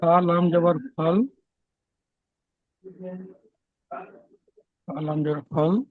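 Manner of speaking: syllable-by-syllable Quran spelling; spelling aloud. Shown as a demonstration. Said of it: "কেটে কেটে বানান করে".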